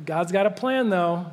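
lightly voiced breezy comforter saying "God's got a plan"; a hint of a glib friend brushing off grief; mock cheery platitude. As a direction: toss off "God's got a plan, though" like an easy answer. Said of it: "be like".

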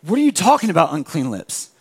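God gently questions the shame; God's gentle disbelief. Retold or imitated.

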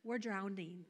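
casual, softly tossed-off aside; mock calm. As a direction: understate it as if nothing is wrong. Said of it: "You're gonna not be, like, calm".

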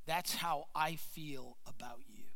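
low, hushed, near-whispered reassurance; tender, quiet. Retold or imitated. God speaking to the preacher about His love, tender and hushed. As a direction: say it softly and low, almost whispering. God's tender words, retold.

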